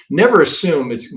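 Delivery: Never hit high and loud; never punched as a warning; stress on never. Shown as a demonstration. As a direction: drive home Never. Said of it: "I emphasize this all the time".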